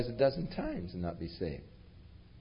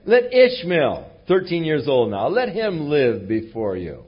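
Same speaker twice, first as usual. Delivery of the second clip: pleading; 3 semitones higher, 6 dB louder than usual. Retold or imitated. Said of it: "Oh, that Ishmael li".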